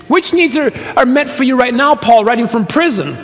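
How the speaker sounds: high-pitched questioning of a claim; skeptical challenge. Pretend. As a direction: question it as if you doubt it.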